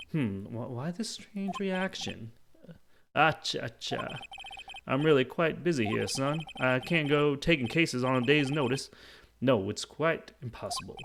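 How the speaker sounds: pompous lawyer brushing off a request; blustering, self-important refusal; Marvin Grossberg. Acted. Lawyer turning down a short-notice case, blustering.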